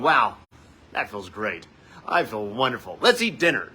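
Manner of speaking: sarcastically upbeat, loud on the exclamations; mock delight. Parent pretending blowing up at kids felt great, mock delight. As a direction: play fake cheer, punching it up.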